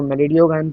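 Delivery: "malign" said as "me-le-dio-gain"; students' mispronunciation. Retold or imitated. Teacher showing how some children read the name, mispronounced. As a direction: imitate students saying "malign" with an extra "dio". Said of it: "कुछ बच्चे इसको malign पढ़ते हैं".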